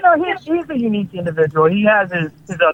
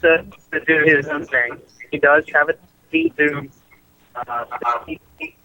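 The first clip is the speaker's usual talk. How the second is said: phone breaking up. Real, not acted. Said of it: "You're breaking up, dude".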